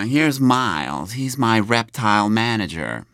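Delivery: slow, deadpan eccentric voice; matter-of-fact introduction. Retold or imitated. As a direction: introduce him as if perfectly normal. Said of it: "och säger". (långsam, torr Nick Cage-röst)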